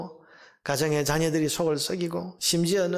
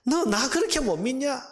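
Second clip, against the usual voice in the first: high, insistent reproach; God; 6 semitones higher than usual. Acted. God challenging the doubting prophet, high insistent reproach. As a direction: press the question harder, pitched up and falling at the end. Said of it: "말씀이 하박국에게 지금".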